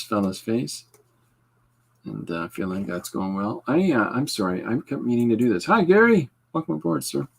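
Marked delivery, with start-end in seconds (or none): 5.6-7.3 high, bright hello to a new viewer; cheery greeting. Real, not acted. Streamer greets Gary in a high, loud, cheery voice.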